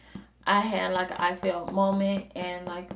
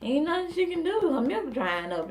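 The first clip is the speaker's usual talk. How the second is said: mimicking mom; 10 semitones higher than usual. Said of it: "my mom was like".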